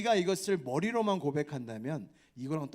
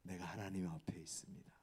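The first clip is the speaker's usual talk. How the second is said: whispered, softer confession; whispered answer; 7 semitones lower, 13 dB quieter than usual. Pretend. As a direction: breathe it out as a whisper. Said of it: "이렇게". (속삭이는 고백)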